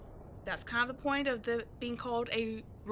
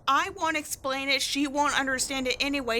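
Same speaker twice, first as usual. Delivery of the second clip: mocking the partner's sigh; 6 dB louder than usual. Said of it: "Don't give me your trademark".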